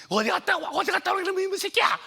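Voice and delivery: shrieking high, loud mother's yell; a mother screaming at her son for running off; furious mother yelling. Retold or imitated. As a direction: scream at the boy who came home late.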